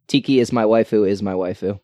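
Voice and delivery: loud, proud waifu declaration; excited anime fan. Acted. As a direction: proclaim it like a devoted otaku.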